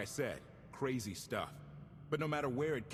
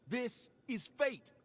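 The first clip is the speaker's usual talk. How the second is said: awed; 9 semitones higher, much slower than usual. Acted. Awed at finding the ship.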